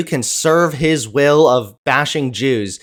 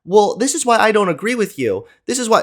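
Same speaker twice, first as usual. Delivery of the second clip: mock reasonable questioner; 5 semitones higher, faster than usual. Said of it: "he's just like".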